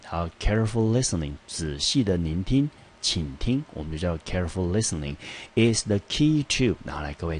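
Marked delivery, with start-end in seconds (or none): 5.6-6.8 is the key to said slowly, a bit higher; slow down and stress key; teacher highlighting is the key to; emphasized phrase. Shown as a demonstration. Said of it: "这边有一个重要的片语".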